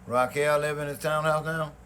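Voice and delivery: can't believe Raquel lives there; surprised. Real, not acted. Friend hearing about Charlie's girlfriend, surprised question.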